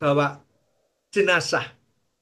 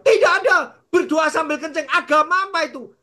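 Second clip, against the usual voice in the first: higher, indignant landowner; mock scolding; 9 semitones higher, 4 dB louder than usual. Landowner catches the pastor peeing on his peanuts, mock scolding. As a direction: tell him off, half-amused.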